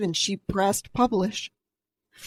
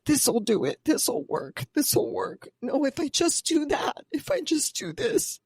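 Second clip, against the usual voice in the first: imitated hopeful self-talk, climbing higher; grasping at fixes; 6 semitones higher than usual. Podcaster recalls clutching at different things, mock-hopeful and rising. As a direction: pitch lifts as each quick fix is tried.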